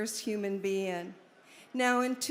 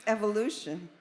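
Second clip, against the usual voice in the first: formal speech reading. Acted. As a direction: read it out like a manifesto. Reads Alan's Be-In statement aloud.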